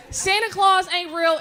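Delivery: slow, loud parental bombshell; retold blunt outburst. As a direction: hammer it home to the child. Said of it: "I said".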